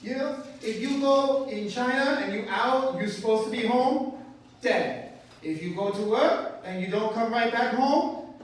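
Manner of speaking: put-on a kid matter-of-factly explaining doom; a high, loud child's blunt warning; little girl voice. Continuing the child's voice.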